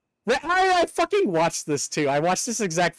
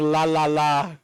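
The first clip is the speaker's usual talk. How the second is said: singsong Pokemon; 4 semitones lower, slower than usual. Retold or imitated. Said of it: "can't stop saying".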